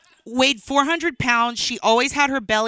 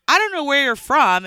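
stern cop; 5 semitones higher, 5 dB louder than usual. Retold or imitated. Cop confronting her.

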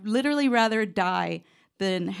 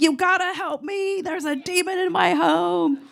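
high, slow, desperate mock plea to the pastor; hammed-up frantic begging, much higher; dramatic plea; 9 semitones higher than usual. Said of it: "that's how I played out in my head".

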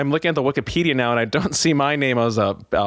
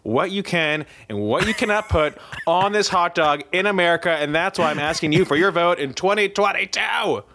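mock campaign pitch; 4 semitones higher than usual.

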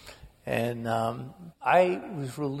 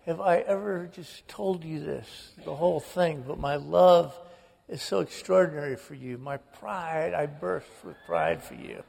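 father's phone voice. Retold or imitated. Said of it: "And I said, ... And it's Dad".

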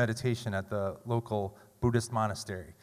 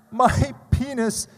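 tearful; 11 semitones higher, 7 dB louder, much slower than usual. Retold or imitated. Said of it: "I told her through sobs".

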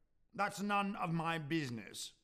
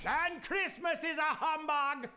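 higher, louder, laughing mockery; scornful laugh; 11 semitones higher, 5 dB louder than usual. Scrooge to Cratchit, louder and higher, with a scornful laugh. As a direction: cackle the word humbug out.

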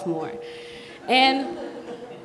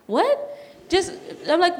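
impatient retort; 6 semitones higher than usual. Retold or imitated. Acted impatience at friend stalling.

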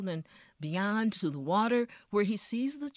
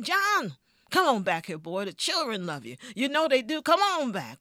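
loud, high calling across the road; owner shouting; 7 semitones higher, 7 dB louder than usual. Acted. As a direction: yell after him to come back. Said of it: "yelled at him again".

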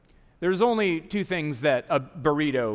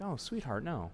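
tender mom; 10 dB quieter than usual. Retold or imitated. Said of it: "she's like".

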